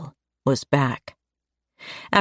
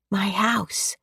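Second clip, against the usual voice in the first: put-on little girl voice; 5 semitones higher, 4 dB quieter than usual. A narrator's reading.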